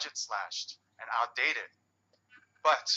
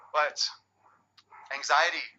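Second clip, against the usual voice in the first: ordinary delivery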